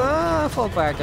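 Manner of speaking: high loud call to retreat; shouting orders over battle. Real, not acted. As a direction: yell at the squad to fall back. Firefight, ordering squad to retreat.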